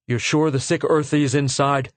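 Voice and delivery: a lightly voiced cold officer; clipped imperial officer, brusque; officer Claudy. Lieutenant questioning his men, lightly voiced officer.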